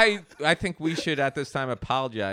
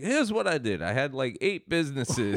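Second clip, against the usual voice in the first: lightly attempted Jamaican accent; a poor mock Jamaican accent; 3 semitones lower than usual. Host playing the store's owner, rough Jamaican accent. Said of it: "like, a Jamaican guy".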